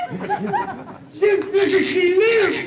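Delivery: put-on slow, laughing French accent; French accent, slow and giggling in disbelief. Cricket turns out alive.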